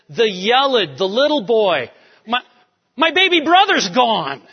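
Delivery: high, loud grieving cry; anguished lament. Acted. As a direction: wail it like a brother who lost the boy. Reuben discovers brother gone.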